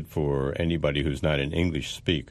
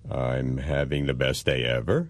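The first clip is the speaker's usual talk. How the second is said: dry sarcasm; mock-happy answer to a bad day; sarcastic. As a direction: claim delight while meaning the opposite. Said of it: "sarcastic person이라고 합니다".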